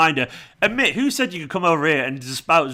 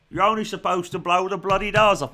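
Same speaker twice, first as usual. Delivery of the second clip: higher-pitched mock Cockney accent; Michael Caine; 4 semitones higher than usual. Streamer quoting a film for laughs, mock Cockney accent. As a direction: put on a hammed-up Cockney film quote. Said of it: "a Cockney accent from, I don't know, Michael Caine".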